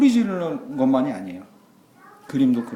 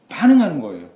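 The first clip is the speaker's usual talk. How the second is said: emphatic; 3 semitones higher, 10 dB louder than usual. Shown as a demonstration.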